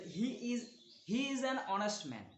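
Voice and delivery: each word drawn out for learners; slow, deliberate classroom reading; slow example reading. Shown as a demonstration. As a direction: read it slowly like dictation. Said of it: "teacher reads example slowly".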